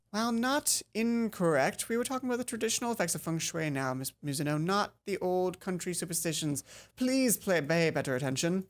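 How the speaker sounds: a hint of a strict schoolteacher; stern teacher. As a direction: correct the pupil with cool authority. Teacher scolding student.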